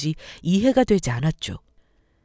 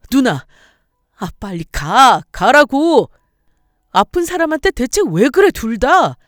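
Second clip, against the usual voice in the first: loud angry younger brother, higher; angry yell; 4 semitones higher, 8 dB louder than usual. Acted. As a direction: shout them out of the house. Husband yells at sister and mother. (크게 화내며 소리치듯)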